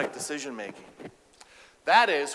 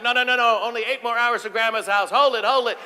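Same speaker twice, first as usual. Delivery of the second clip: louder, higher firm no; refusing dad; 7 semitones higher, 8 dB louder than usual. Retold or imitated. Dad refusing kids' bathroom stop, loud and firm. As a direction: shut the kids down.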